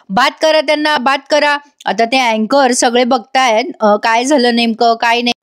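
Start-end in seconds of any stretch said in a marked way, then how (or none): 0.1-1.6 higher-pitched retold demand; mock yelling. Aishwarya demands that they be disqualified, mock yelling. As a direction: imitate a yelled demand without raising the volume. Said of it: "Aishwarya पण ओरडायला लागते".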